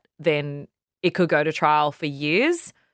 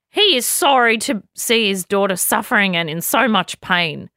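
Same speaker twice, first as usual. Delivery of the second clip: put-on Australian accent, pitched higher and louder; mock Australian accent; 4 semitones higher, 4 dB louder than usual. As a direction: play the lawyer with a hammed-up Australian accent. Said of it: "She has an Australian accent".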